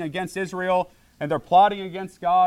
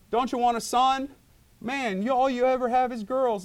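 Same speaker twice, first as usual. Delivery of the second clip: mocking people; 7 semitones higher than usual. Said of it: "everybody say".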